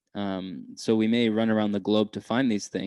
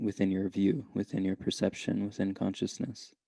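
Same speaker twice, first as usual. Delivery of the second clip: unhurried meditation guide with long pauses; calm, measured meditation voice; guided meditation. Real, not acted. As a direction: gently lead listeners inward, leaving space between phrases.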